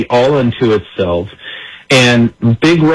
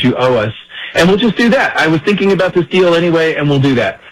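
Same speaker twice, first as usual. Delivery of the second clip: higher-pitched imitation of the president, casual and offhand; mock presidential voice; 4 semitones higher than usual. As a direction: toss off the deal like the president would. Quoting the president's offer.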